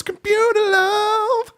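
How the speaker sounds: high, slow robot voice; lightly imitating a computer robot; robotic voice. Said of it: "Sean, Sean the Breed goes".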